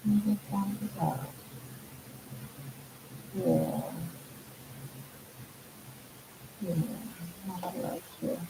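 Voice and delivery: soft hushed pet talk; talking to a dog. Real, not acted. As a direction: murmur gently to the dog.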